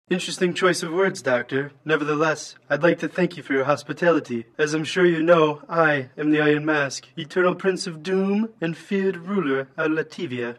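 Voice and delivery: put-on stilted robotic villain with an odd accent. Masked supervillain introducing himself to his therapist, robot voice. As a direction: speak as a self-important masked robot villain. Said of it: "That's quite a bleeding accent you got there".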